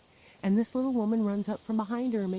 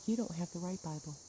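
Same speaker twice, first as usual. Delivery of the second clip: a hint of a smug, soft, condescending leader; lightly voiced, patronizing and quiet; understated imitation of a smug church leader; mock group leader; 6 dB quieter than usual. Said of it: "this group leads like".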